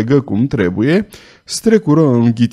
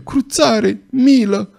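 high, terrified begging; frantic plea for mercy; 10 semitones higher, slower than usual. A narrator's reading. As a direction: cry out for mercy in pain. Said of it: "strigă Gilot, înnebunit de groază". (implorare îngrozită, pe ton înalt)

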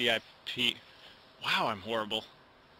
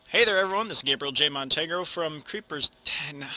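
intro retake. Shown as a demonstration. Youtuber retaking his intro, upbeat host voice. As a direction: greet the viewers like a host again. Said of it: "Why do I keep doing that?".

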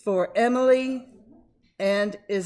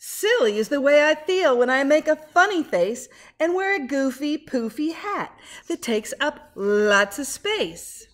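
silly; 4 semitones higher, 6 dB louder than usual. Acted. Reads silly page aloud.

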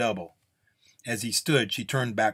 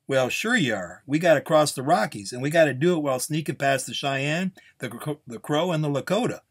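higher, louder protesting voice; skeptical gunslinger; 6 semitones higher, 5 dB louder than usual. Acted. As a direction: pile up the dangers in protest. Gunslinger lists the dangers.

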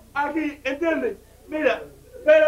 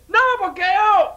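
slow mock tough guy; 7 semitones higher, much slower than usual. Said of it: "el tipo me dice".

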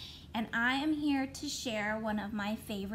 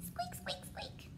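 tiny, high, soft squeaks; mouse squeak; 11 dB quieter, slower than usual. Pretend. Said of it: "what does a mouse say".

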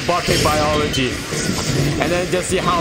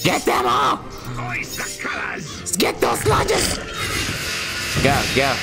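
shouting command; 2 semitones lower, slower than usual. Pretend. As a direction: yell it slowly at the troops. Shouting at units in game.

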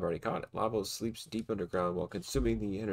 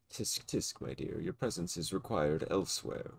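sinister voice; 4 semitones lower than usual. Acted. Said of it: "it's a sinister voice".

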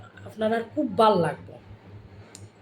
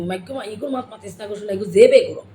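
quick Sylheti put-down ending louder; Sylheti scolding; 4 dB louder, faster than usual. Shown as a demonstration. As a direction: cut someone off in Sylheti, rising to a louder finish. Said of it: "আমরা ওই এক কথায় বুঝাই দিব".

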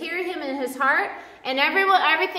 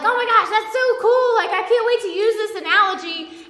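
higher, louder geeky gushing; nerdy excitement; 6 semitones higher, 4 dB louder than usual. Retold or imitated. Preacher recalling a nerdy thrill at a new analogy, excited. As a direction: gush like a thrilled nerd. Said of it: "I'm a nerd. I was like".

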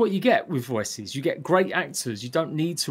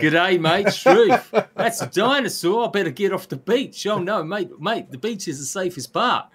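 high, hammed-up Aussie accent; terrible Australian accent; 5 semitones higher than usual. Fan joking about a stupid Bob from Australia, hammed-up Australian accent. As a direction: do a bad, lively Australian accent, pitched up. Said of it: "That was my terrible Australian accent".

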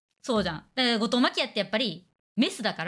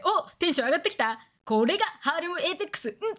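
playful hype; 5 semitones higher than usual. Retold or imitated. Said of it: "とか言いながら".

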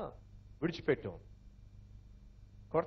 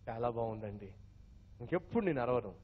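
quiet, sweet wife's promise; soft reply; 8 semitones lower, 7 dB quieter than usual. Acted. Wife softly promising her husband never to shout, quiet. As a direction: answer gently, softer.

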